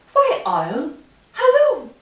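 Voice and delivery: high, loud hello; mouse's greeting. A narrator's reading. Mouse greets Owl before the Gruffalo, high cheery call. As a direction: sing out hello, pitch leaping up.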